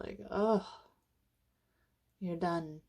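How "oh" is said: demonstrated "oh" of letting go; sighed-out "oh"; sigh of release. Shown as a demonstration. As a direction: let out a relieved "oh" on the breath. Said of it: "when you let it go".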